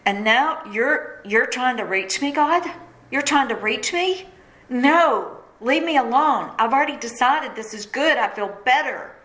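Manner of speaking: a startled, stubborn "leave me alone"; incredulous protest. Retold or imitated. Retold protest to God.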